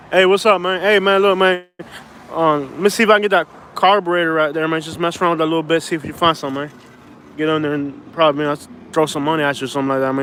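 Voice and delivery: lightly done country drawl with ghetto slang, man; Alabama country drawl. Shown as a demonstration. Showing viewers his Alabama country-ghetto drawl, mild. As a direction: ease into a loose Southern drawl, a little fast. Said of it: "let me try it".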